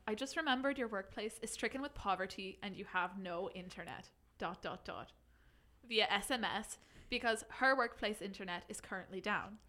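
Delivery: put-on reading in a light Irish accent; a hint of Irish accent. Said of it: "do you think I could do it in Irish?".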